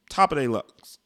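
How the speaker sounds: talking with the hiccups. Real, not acted. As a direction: hiccups breaking into words. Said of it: "I got the hiccups".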